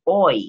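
loud "oi" for "all right"; sounds like oi. Shown as a demonstration. Guest showing how her attempt comes out, a loud consonant-free "oi". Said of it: "it sounds like I'm saying".

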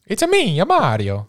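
high-pitched mock-Italian catchphrase, dropping back down; Mario. Guessing the trailer's first line, in a squeaky Mario impression. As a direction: do a squeaky cartoon Italian plumber. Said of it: "he says his first line".

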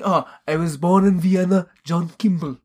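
lightly imitated Austrian accent; Arnold Schwarzenegger. Retelling his Kindergarten Cop introduction, mock Austrian accent. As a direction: play at being an Austrian action star introducing himself. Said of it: "like, from Austria or something".

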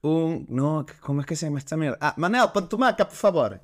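put-on Catalan accent, pitched high, fumbling for Spanish words; clumsy Catalan accent, climbing high on "maca"; old Catalan village lady. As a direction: play an elderly Catalan woman from a closed village who can barely speak Spanish, in a Catalan accent. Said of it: "tienes que imitar el acento".

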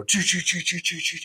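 repeated "choo" noises. Retold or imitated. Imitating slow-motion baby toss.

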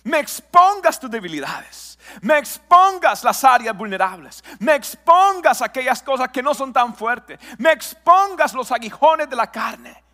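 a hint of God's plea, preached with growing force; God speaking. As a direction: voice God's call to confess, slowing down and swelling. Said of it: "Dios lo que está diciendo".

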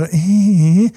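imitated high little "hee-hee"; sheepish giggle. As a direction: mimic a partner peeking back with a giggle. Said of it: "schaut meistens ganz kurz so ein bisschen so". (nachgemachtes verlegenes Kichern)

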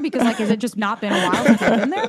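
loud, amused disbelief; can't believe it's happening; incredulous. Retold or imitated. Incredulous retold reaction.

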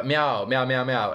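lightly voiced spoken meows; cat imitation. Hiding Scotsman fools the soldiers, light cat imitation. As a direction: meow as if pretending to be a cat. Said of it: "it's just a cat".

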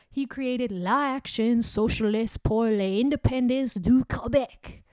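"La Action Socialiste pour l'Indépendance du Québec" in slow, effortful French; learner's slow French reading; careful French. Shown as a demonstration. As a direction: read the French name slowly and carefully. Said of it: "apologize for anything I say in French".

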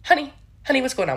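high, loud put-on socialite voice; Karen Walker impression. Doing Karen Walker from Will and Grace. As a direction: coo it like a boozy socialite. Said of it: "Megan Mullally as Karen Walker".

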